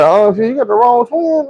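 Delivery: very high-pitched mimicked female voice; high, put-on girl voice turning him down; imitated woman's rebuff. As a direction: pitch it way up, mocking her brush-off. Voices second twin rebuffing him.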